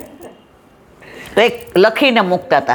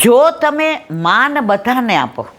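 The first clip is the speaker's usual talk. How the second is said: slow, weighty; 3 semitones higher, slower than usual. Shown as a demonstration. Closing maxim said slowly.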